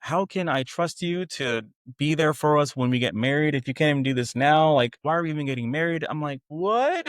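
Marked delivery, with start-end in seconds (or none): 0.0-6.0 worked-up retold rant, pitched up; hurried, higher-pitched mock tirade; losing it. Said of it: "lost it, like, she was just like". 6.5-7.0 very high, incredulous what; retold shock, pitch shooting up; stunned disbelief.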